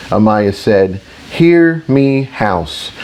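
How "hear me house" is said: high, ringing summons that drops at the end; restrained narrated shout, pitched up; raised to shout. A narrator's reading. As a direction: call the room to attention. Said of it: "She raised her voice to shout".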